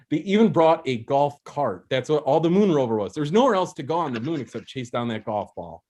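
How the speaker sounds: building a silly case with rising agitation; getting worked up. Real, not acted. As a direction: get carried away by your own argument. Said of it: "I'm getting worked up".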